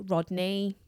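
Cockney "Rodney" with a loose, dropped-off ending; "Rodney" the way a London barrow boy calls it; Cockney accent. Shown as a demonstration. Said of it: "You've gotta say them in the Cockney accent".

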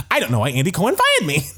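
laughing imitation of a fired star; mock lament, laughing. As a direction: rush it out while cracking up. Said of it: "Just being like".

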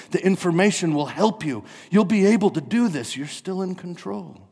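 high, loud insistent pitch; urgent, overeager promising; competing promisers. Acted. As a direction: clamour for attention like rival hawkers. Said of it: "different voices are all laying claim".

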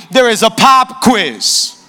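slow, drawn-out teacher's announcement with the stress on pop; a teacher dropping bad news on the class; strict teacher's announcement. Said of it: "and the teacher goes".

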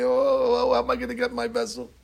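high, fast fretting cry; a distraught servant girl wailing over her jug; lightly voiced weeping maid; lamenting maid. Maidservant laments her lost vessel.

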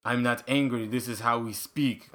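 put-on Russian accent, deadpan; joking Russian impression; mock Russian. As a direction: explain yourself in a stern mock Russian accent. Voices Russian explaining how they speak.

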